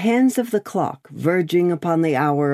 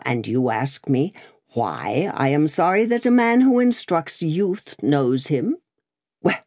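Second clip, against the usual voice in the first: bullying barrister. Acted. Stryver lectures Darnay.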